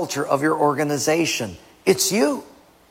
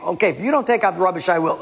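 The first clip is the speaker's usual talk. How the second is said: impatient wife; 3 semitones higher, much faster than usual. Acted. Acted wife getting impatient.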